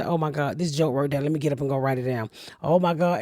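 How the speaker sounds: quietly excited self-talk; muttered to self. Retold or imitated. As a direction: talk to yourself so as not to wake anyone. Retelling late-night self-talk.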